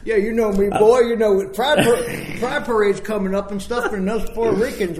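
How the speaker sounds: put-on loud, high Puerto Rican accent. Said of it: "great Hispanic accent".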